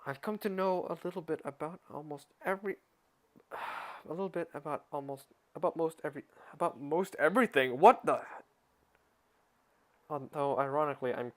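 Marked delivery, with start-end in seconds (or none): 0.0-7.8 frustrated retakes. Real, not acted. Reader stumbles, retries frustrated. 7.8-8.2 startled outburst. Real, not acted. Startled by interruption.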